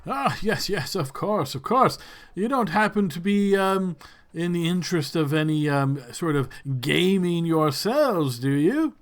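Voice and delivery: lightly voiced, fussy lord feeling out his guests; lord's halting, lilting invitation; hesitant lord. Lord Quentin sounding out guests about gaming, lightly voiced hesitant lord.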